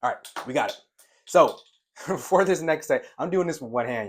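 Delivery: laughing while talking, loud. Real, not acted. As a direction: chuckle through the words.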